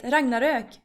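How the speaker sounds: Ragnarök with rolled R and ö ending; Swedish pronunciation. Shown as a demonstration. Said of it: "the Swedish way of saying".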